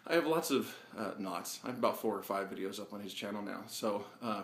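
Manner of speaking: slightly winded after climbing stairs; out of breath, catching air between words. Real, not acted. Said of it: "forgive me for being a little out of breath".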